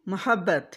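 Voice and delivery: मोहब्बत with zabar on meem, ma-habbat; मोहब्बत with open first vowel, not mu; correct mohabbat. Shown as a demonstration. Teacher modelling correct मोहब्बत for viewers. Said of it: "के ऊपर ज़बर".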